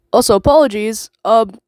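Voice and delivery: stuffy congested voice. Real, not acted. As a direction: speak with a blocked nose. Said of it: "if I sound a little congested".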